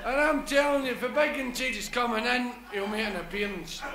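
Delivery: lightly voiced old hand; big apostle. Big apostle reassuring the wee one in the pub, knowing.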